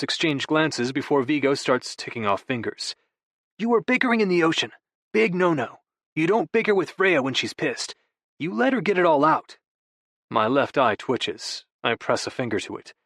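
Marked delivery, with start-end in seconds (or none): 3.6-9.6 lightly raised, breezy younger brother; a hint of a sheepish brother; Vigo's voice. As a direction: play it off with easy charm. Vigo lecturing his brother.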